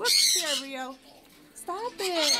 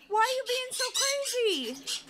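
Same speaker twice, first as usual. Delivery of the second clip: raised, high-pitched reproach; high, exasperated pet-owner voice; exasperated scolding; 5 semitones higher than usual. Real, not acted. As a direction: scold a misbehaving pet in disbelief. Scolding the birds for acting up.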